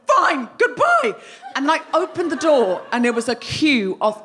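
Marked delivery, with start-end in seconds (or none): 0.1-1.1 high, slow, laughing huffy farewell; stormy goodbye. Retold or imitated. Wife storms out on husband, high and slow. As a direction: fling it over your shoulder as you storm out. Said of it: "I stormed over to the door and went".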